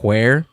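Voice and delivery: "where" begun with an audible h, "hwere". Shown as a demonstration. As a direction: blow an H before the W in "where". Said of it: "some people pronounce the, the H's".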